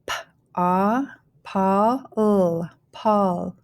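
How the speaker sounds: "pal" built up sound by sound with an ah vowel; teacher blending "pal" with gaps between sounds; phonics blending. Shown as a demonstration. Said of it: "go ahead and start blending".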